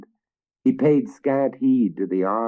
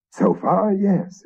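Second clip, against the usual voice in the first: high, loud grudging yes; grudging admission; 13 semitones higher, 4 dB louder, slower than usual. A narrator's reading. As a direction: admit it reluctantly. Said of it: "admitted the third".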